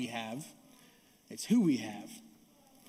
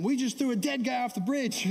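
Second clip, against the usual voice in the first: retold shout across the street; yelling back; 6 semitones higher than usual. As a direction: call it back over your shoulder while running. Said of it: "I yell back to him".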